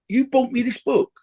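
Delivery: high, slow disbelieving question; shocked. Retold or imitated. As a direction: imitate someone stunned by a gift. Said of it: "he was so shocked".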